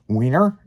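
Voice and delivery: sharply rising questioning "Wiener?"; questioning quote. Retold or imitated. Friend retold offering a hot dog, questioning. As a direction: offer it as a one-word question, lifted at the end. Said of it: "like that".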